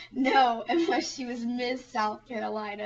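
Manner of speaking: loud, emphatic "No"; retold scornful correction. Friend correcting a silly question, emphatic mock scorn. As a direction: imitate a friend setting someone straight.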